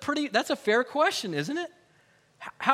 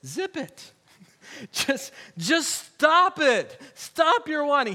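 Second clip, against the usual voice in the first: louder, higher, very slow on stop it; stern command; 5 semitones higher, 4 dB louder, slower than usual. Acted. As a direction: scold them like a firm teacher. Jesus voiced scolding the congregation.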